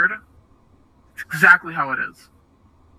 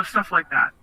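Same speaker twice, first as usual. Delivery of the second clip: usual speaking voice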